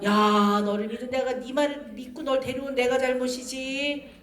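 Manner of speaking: mock reproachful lament; lightly acted self-blaming scold; insulting mother. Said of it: "막 애를 막 모욕해요".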